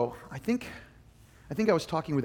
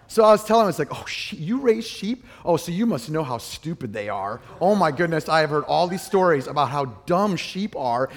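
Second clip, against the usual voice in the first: loud, eager rattling-on about sheep; a hint of eager know-it-all chatter; 7 dB louder than usual. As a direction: gush like you're showing off. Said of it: "going off about this".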